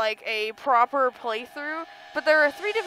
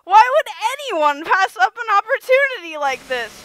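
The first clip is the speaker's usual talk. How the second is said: louder taunting sneer; a hint of gleeful villain; mocking villain; 5 semitones higher, 8 dB louder than usual. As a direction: jeer at the trapped player. Flowey taunting, loud.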